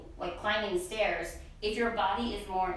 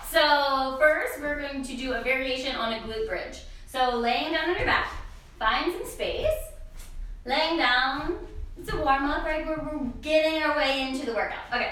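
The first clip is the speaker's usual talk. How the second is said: teacher voice; 3 semitones higher than usual. Real, not acted. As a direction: project like a fitness teacher to the room. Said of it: "I'll use my teacher voice".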